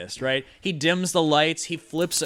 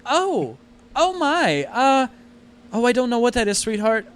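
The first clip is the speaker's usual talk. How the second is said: much higher, louder fussing mother; anxious mum fretting over her child; flustered mother; 9 semitones higher, 6 dB louder than usual. Acted. Mother voiced in story.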